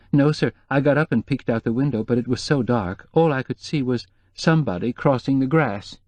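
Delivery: lightly voiced worried housekeeper; nervous housekeeper.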